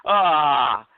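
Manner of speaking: put-on waking-up yawn, then idle musing; mock yawning. Mocking stupid people waking up each morning, mock yawning. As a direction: act out a morning yawn into the words. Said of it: "yawn and say".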